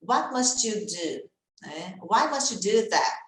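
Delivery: "must you" run together as "mastchi"; linked must you. Shown as a demonstration. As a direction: join "must you" with a tch sound. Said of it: "junção de T com Y".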